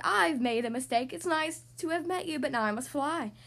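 mildly flustered dragon making excuses; sputtering dragon. Acted. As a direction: back off with nervous politeness. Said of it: "he sputtered".

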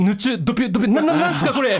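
high, squeaky mock panic; hammed-up high voice, laughing through it; mock flustered gamer. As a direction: ham up a flustered nerd reading lines. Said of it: "エロゲのセリフを口に出して言う".

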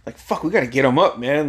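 high, fast movie-line impression; Matt Dillon. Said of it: "Matt Dillon, like".

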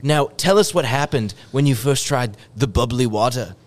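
lightly voiced announcer. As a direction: hype up the next guest. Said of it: "do my announcer voice".

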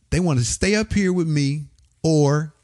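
high, slow radio host imitation; imitated host keeping the city in suspense; radio host on air. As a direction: draw out the listeners' dilemma in a high announcer voice. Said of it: "He starts radio station like this".

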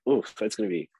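breathy whisper of dread. Retold or imitated. Reading the boat scene script, whispered dread. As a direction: whisper it to yourself.

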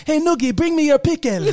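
put-on African accent. Man calling his dog, put-on African accent. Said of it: "doing that accent to my dog".

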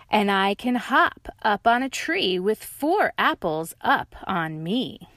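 proud of the trick; lightly voiced dog; bragging dog. Dog boasts.

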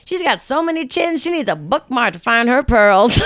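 lightly voiced sassy girl roasting; sassy insult. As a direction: deliver the burn like a cheeky kid. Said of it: "she's like".

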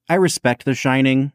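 snooty, nasal and dismissive. Real, not acted. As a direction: look down your nose through a pinched nose. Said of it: "the snootiest, like, like, uh, nasally voice".

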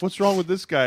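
high, loud puzzled question; mock bafflement. Onlookers seeing runner lying on ground, mock bafflement. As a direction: imitate bewildered onlookers.

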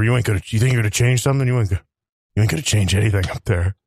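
lightly done mumbly Rambo; a hint of a haunted soldier muttering; Sylvester Stallone impression. A light Rambo impression for the character reel. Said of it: "That's Sylvester Stallone".

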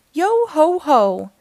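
slow, loud high pirate call; shouting. A narrator's reading. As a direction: belt it out like a pirate. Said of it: "shouted Annie".

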